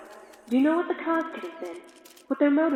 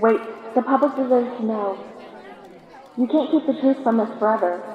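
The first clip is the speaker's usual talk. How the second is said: raised, insistent voice over the crowd; calling out; 4 dB louder than usual. Acted. Reporter shouting after the departing official, loud. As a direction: call after him so he can't leave.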